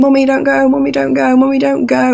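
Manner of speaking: put-on high screaming toddler voice, over and over. A mother recalls her three-year-old begging her not to leave; imitating her son screaming. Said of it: "he was screaming".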